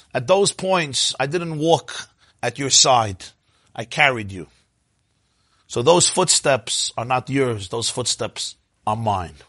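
calm the hurt with a slow reply; gentle reassurance. Acted. God gently answers the man's reproach.

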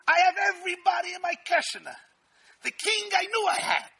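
loud, high, gloating braggart; boastful Haman. Retold or imitated. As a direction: crow it like a puffed-up villain. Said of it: "What's his first words to Zeresh?".

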